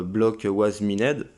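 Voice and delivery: slow English read with a French accent. Real, not acted. Reading on-screen English text aloud to viewers, slow French-accented English. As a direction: sound out the English words slowly in a French accent. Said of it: "excusez-moi pour l'accent anglais".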